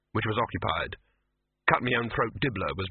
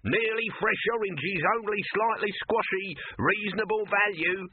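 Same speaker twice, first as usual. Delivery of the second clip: high, slow feeble hawker call; a hint of a half-hearted seller; lightly voiced apologetic market seller; mock timid street crier; 10 semitones higher than usual. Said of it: "They don't shout out".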